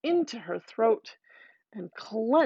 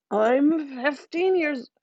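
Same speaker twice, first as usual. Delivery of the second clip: put-on old fairy; 3 semitones higher than usual. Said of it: "starts saying".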